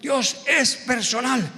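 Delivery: solemn pastor. Retold or imitated. Pastor's solemn verdict repeated.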